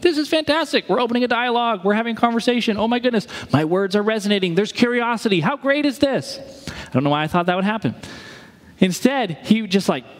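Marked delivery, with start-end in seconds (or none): 0.0-6.4 mock delighted, high and bright-eyed; imagined delighted preacher. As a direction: gush like a thrilled preacher. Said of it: "I thought he was gonna be like".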